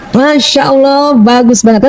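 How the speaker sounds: high-energy praise. Shown as a demonstration. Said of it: "intonasi ... energinya tinggi".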